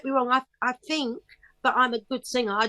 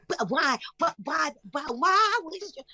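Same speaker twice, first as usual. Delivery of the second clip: rising, higher each time; baffled; 7 semitones higher than usual. Retold or imitated. Mother acting out her bewilderment on stage, rising pitch. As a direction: climb in mock confusion. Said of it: "And I'm like".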